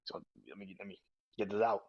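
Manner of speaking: heavy sigh then loud winded gasping; sighing, loud, laughing breathlessness; mock out of breath. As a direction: act spent and gasping for air. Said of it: "then it's just like".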